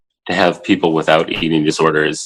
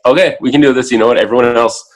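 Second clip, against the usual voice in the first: higher, louder pep talk to himself; psyching himself up, raised and loud; self pep talk; 6 semitones higher, 4 dB louder, faster than usual. Retold or imitated. New dad psyching himself up before raising a daughter, higher and louder. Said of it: "I'm just like".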